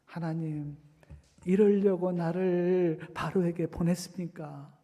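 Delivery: slow, understated acted complaint to God; restrained reproach. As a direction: let the reproach drag out, without raising the voice. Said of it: "하나님을 원망합니다".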